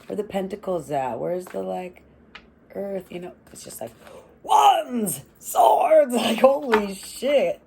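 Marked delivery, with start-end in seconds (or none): 4.4-7.6 laugh crying. Real, not acted. Overwhelmed by cards, laugh-crying.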